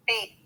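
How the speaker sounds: "B" ending in an open long ee; long vowel sound. Shown as a demonstration. Teacher showing an open syllable, long vowel sound. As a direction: say "B" as bee, with a long e. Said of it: "Use the long vowel sound".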